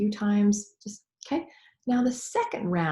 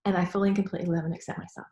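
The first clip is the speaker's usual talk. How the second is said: quick tag line; faster than usual. Shown as a demonstration. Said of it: "I tagged it with".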